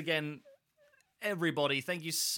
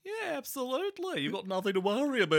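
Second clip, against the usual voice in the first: high, hammed-up Aussie reassurance; playful put-on Australian accent; 8 semitones higher than usual. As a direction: reassure in a broad mock-Australian. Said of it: "on the money with your Australian".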